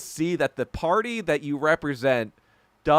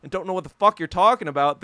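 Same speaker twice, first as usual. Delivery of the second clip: frustrated outburst; 4 semitones higher, 3 dB louder than usual. Retold or imitated. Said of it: "when I actually get frustrated".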